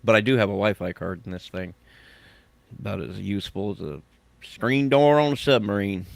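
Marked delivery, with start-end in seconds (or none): 2.8-6.1 put-on country accent. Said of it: "that's a proper accent for you".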